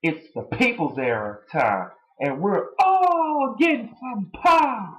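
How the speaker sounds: lightly voiced sneering promo; imitating a wrestler's promo; mocking Punk quote. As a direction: toss off his catchphrase with a sneer. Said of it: "and saying".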